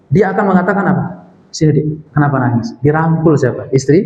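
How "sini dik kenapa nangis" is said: tender coaxing. Acted. Loving husband to his crying wife, tender. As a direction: gently draw a crying wife close. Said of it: "Panggilan kasih sayang".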